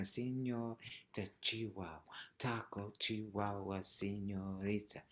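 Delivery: soft, even rhythmic count, no punch on "taco"; just saying words. Shown as a demonstration. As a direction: recite "Señorita Chihuahua, taco" softly and evenly. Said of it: "begin by just saying the words".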